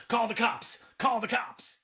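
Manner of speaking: put-on half-hearted yell of the hysterical girl; imitating a frantic call for help; retold mock yell. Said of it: "the girl yells at".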